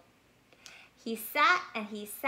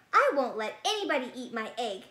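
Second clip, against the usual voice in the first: fierce; 4 dB louder, faster than usual. Acted. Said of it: "with his fiercest stare".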